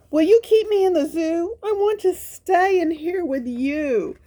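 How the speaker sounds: high, quick pleading puppy voice; a little dog begging the keepers in a high voice; pleading Spot. Acted.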